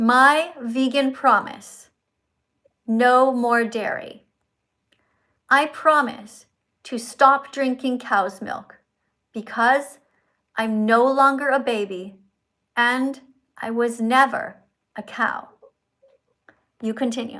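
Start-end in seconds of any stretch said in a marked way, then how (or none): 0.0-15.5 clear, careful, deliberate, as slowly as possible. Asked to read slower, reading a vegan promise aloud, slow and clear. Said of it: "clearly and slowly, as slowly as you can".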